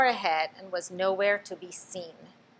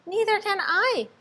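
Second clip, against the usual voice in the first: howling; 13 semitones higher, 4 dB louder than usual. A narrator's reading. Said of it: "howled Flitter".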